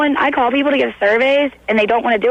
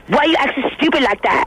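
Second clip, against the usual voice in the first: mocking taunt; 4 semitones higher than usual. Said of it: "this is my thing".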